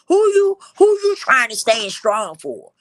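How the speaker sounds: real tears breaking through the question. Real, not acted. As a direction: voice cracks high and loud with tears. Emotional plea, voice cracks.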